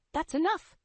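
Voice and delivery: a high, loud roared that's enough. A narrator's reading. Husband cutting off his wife in rage, roaring. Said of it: "he roared".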